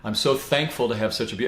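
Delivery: soft, tender self-talk to himself; gentle affirmation. Shown as a demonstration. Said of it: "And I'll say".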